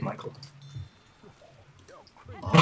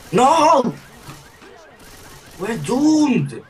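mock despair; 9 semitones higher, 3 dB louder, much slower than usual. Mock despair at the car alarm.

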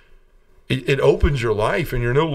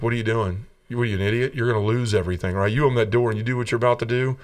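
devil's voice. Retold or imitated. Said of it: "the devil comes back again".

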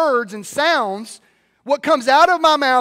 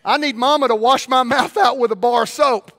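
mock dismissive voice; 6 dB louder than usual. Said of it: "I don't need to just go".

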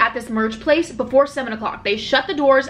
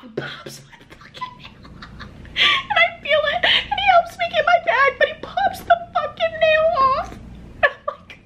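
high, slow words broken by laughter; can't stop laughing while telling it; squeaky laughing disbelief; laughing through words; slower than usual. Real, not acted. Laughing retelling nail mishap.

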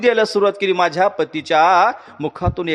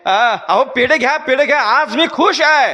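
higher, bright outpouring of long-awaited joy; joyful wife; 5 semitones higher than usual. Acted. Wife offering sweets to the king, overjoyed. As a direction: offer the sweets, glowing with relief. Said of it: "राजाला बोलत होती".

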